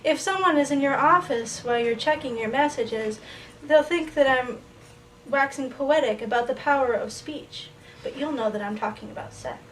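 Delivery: measured poem recital with lifted phrase starts; falling cadence at each line's end; poetry reading. Acted. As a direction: read it to the room as a poem, line by line. Reads poem titled Voicemail.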